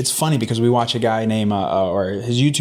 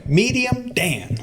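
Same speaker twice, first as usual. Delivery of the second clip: playful greeting; 12 semitones higher, much slower than usual. Real, not acted.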